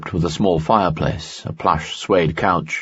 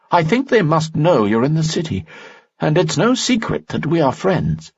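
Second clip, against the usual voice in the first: higher, courtly nobleman voice; a charming noble, pitched up; Lanson's voice; 10 semitones higher than usual. Acted. Lanson speaks in story.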